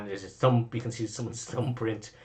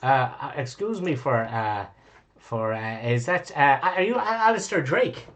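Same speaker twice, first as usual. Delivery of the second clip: starstruck fan; 3 semitones higher than usual. Acted. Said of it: "he goes".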